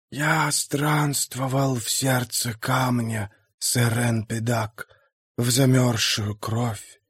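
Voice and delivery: slow, soft ghostly voice; hollow spirit, speaking quietly. Acted.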